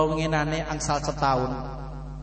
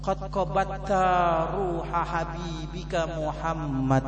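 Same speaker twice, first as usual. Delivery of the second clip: mother's prayer; 3 semitones lower, 5 dB quieter, slower than usual. Acted.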